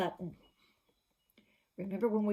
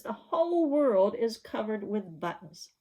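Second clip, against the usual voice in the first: mock tantrum quote; 3 semitones higher, 6 dB louder than usual. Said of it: "He says".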